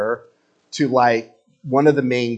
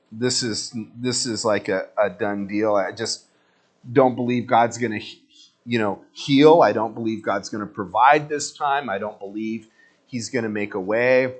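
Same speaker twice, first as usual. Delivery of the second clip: low, soft, resigned inner voice; a hint of a defeated, faithless pray-er; doubtful prayer; 3 semitones lower, 3 dB quieter than usual. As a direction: mutter the doubt to yourself. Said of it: "but you're like".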